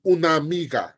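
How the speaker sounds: "una amiga" run together as one word; words linked. Shown as a demonstration. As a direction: glide "una amiga" with the two a's merged. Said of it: "if you are reading and it's in the sentence".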